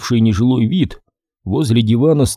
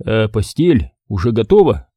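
наивно; 2 semitones lower than usual. Acted. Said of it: "наивно спросил я".

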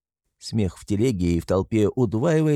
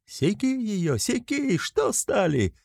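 high eager egging on; urging shout; 11 semitones higher, slower than usual. A narrator's reading. Voices in the crowd egg Mikolka on, high call. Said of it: "кричат голоса из толпы".

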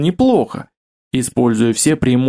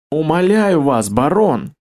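begging cry; 4 semitones higher, slower than usual. Acted. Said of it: "воскликнул толстяк".

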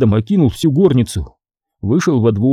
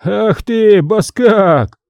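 raised, furious insult; angry shout; 8 semitones higher, much slower than usual. Acted. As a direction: hurl the word баскак at him. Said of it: "закричал Васька".

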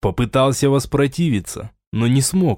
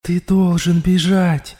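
higher, slow voice from inside his head; an alien voice urging him to run; insistent inner voice; 7 semitones higher, slower than usual. A narrator's reading. The voice in Raul's head urges him to flee, insistent. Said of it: "Голос в голове не унимался".

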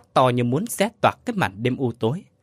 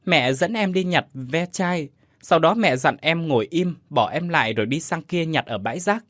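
put-on sniffling child; 4 semitones higher than usual. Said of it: "Đứa bé sụt sùi".

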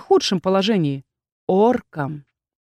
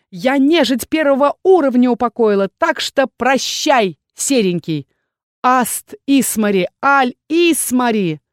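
confident shout; 3 semitones higher than usual. Acted. Heroine taunts the goblin and casts, confidently. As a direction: chant the spell with conviction. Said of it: "стараясь кричать как можно увереннее".

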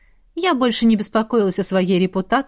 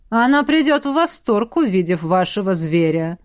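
нарочито громко. Acted. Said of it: "нарочито громко поддержал".

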